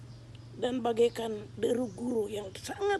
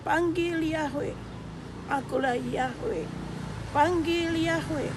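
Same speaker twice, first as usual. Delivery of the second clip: loud, slow and higher commanding call; voice from heaven; 5 semitones higher, 5 dB louder than usual. Retold or imitated. Voice from the light commanding the witness, slow loud proclamation. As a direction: boom it out like a voice from the sky. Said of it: "suara yang turun".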